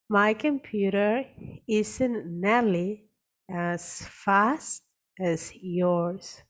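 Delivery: very slow, stressing FAST in as fast as; slow careful demo. Shown as a demonstration. Teacher modelling each word slowly for the class. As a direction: spell it out slowly for students to repeat. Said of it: "pronounces every word slowly".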